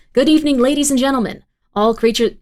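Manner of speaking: fast, formal anchor read; news anchor voice. Pretend. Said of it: "Lady of the News voice, please".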